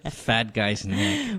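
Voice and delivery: laughing. Real, not acted. Laughing at gross mental image.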